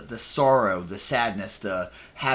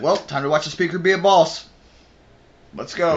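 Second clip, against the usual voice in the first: loud, raised, pumped-up delivery; retold hype; 5 semitones higher, 5 dB louder than usual. Player seeing that symbol before a cutscene, excited. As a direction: hype yourself up for the show. Retells own hyped reaction to symbol.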